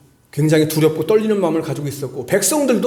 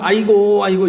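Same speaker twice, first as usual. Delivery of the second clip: imitated funeral wailing; 2 semitones higher, 4 dB louder than usual. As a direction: lightly act out a ritual wail for show. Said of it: "손님이 이제 조문객이 딱 오면". (초상집 곡소리를 가볍게 흉내 내듯)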